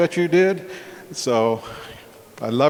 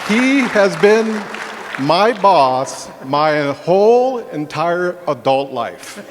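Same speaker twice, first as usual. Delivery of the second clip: higher, louder, slower, straining; emotion rising; 3 semitones higher, 3 dB louder, slower than usual. Real, not acted. Brother choking up praising him, higher and louder. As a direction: push through the emotion.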